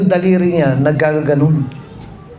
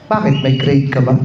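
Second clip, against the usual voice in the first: snooty teacher; 4 semitones lower than usual. Retold or imitated. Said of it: "sungit pa naman ang mukha".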